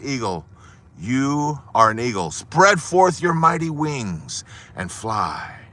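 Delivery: slow, grand proclamation; solemn command. Acted. Naturalist lifting the eagle on the ledge, slow solemn command. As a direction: draw out the command like a blessing.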